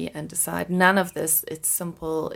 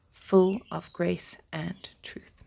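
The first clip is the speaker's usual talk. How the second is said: whispered; slower than usual. Acted. Reading scripture softly, hushed.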